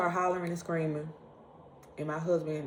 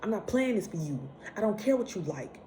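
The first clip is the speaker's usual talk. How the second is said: irritated inner snap; 4 semitones higher than usual. Retold or imitated. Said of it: "And I'm like".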